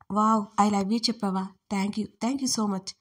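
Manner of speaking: slow, drawn-out teasing gratitude; mock delight. Hero teasing the heroine by pretending she said love, slow mock delight. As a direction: stretch the thanks out, pretending to be touched.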